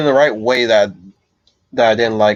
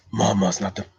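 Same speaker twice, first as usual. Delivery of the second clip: Dredd; 6 dB quieter than usual. Acted. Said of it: "I can do my Dredd voice".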